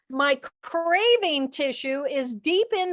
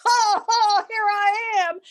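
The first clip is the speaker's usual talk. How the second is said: high, loud mock gasp of arrival; birth exclamation; 6 semitones higher, 4 dB louder than usual. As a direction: burst into the world with a loud high ho. Newborn arriving, bam.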